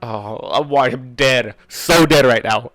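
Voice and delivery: slow, loud, seething outburst; real fury. Real, not acted. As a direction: drag it out, boiling with rage. Reader furious at villain.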